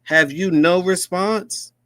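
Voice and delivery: high, slow mock English reporter, pushing hard; mock British accent. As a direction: ham up a demanding British reporter. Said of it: "or the U K".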